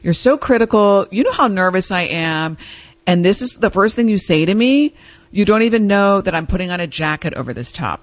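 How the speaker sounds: retold defensive protest; mildly acted, self-justifying complaint. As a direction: replay an indignant outburst at a husband. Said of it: "launch into a dissertation of defensiveness".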